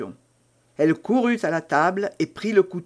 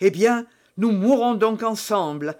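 exclaiming; 4 semitones higher, 3 dB louder than usual. Acted. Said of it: "s'écria-t-il".

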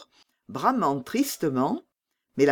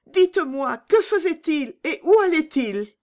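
higher, urgent begging; pleading; 12 semitones higher, 5 dB louder than usual. Acted. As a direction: press them anxiously for news. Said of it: "comme pour les implorer".

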